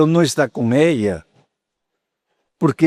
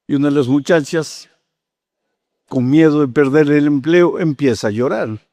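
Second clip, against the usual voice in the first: ordinary talk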